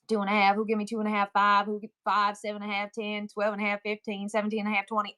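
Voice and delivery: even-pitched auctioneer chant; forward auctioneer count. Shown as a demonstration. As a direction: count upward like a practicing auctioneer. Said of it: "I can do it forward".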